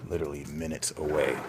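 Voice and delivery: loud ominous literally minutes away; urgent warning. Real, not acted. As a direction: press the urgency. Warning of coming unrest.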